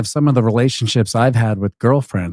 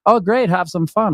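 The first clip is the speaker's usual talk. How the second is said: much higher, sugary cheerful voice; sweet girlfriend voice; 8 semitones higher than usual. Retold or imitated. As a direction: chirp it like a too-agreeable girlfriend. Girlfriend agrees again.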